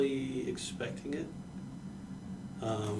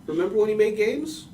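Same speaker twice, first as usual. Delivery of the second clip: sarcastic; 5 semitones higher, 7 dB louder than usual. Acted. Jabbing at Sega, louder.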